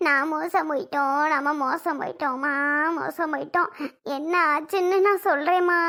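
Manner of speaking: slow, drawn-out tearful lament; tearful wailing. Acted. Sister tells family they were cheated, tearful wailing. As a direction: plead through tears, stretching the words. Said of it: "மோசம் போயிட்டேன்னு அழுகுற".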